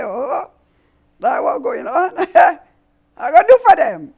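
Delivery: high, loud villain gloat with a cackle; villain Zanana. Acted. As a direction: sneer it out, wicked and amused. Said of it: "wicked laugh".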